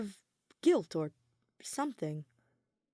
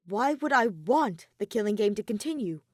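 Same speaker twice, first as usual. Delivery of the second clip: louder, disbelieving challenge; incredulous demand; 3 semitones higher, 5 dB louder than usual. Acted. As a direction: demand it, unable to believe it. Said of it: "demanded incredulously".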